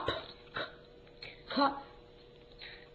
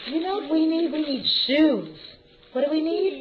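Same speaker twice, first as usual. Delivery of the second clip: excited; 4 semitones higher, 6 dB louder than usual. Real, not acted. Building excitement for shoes.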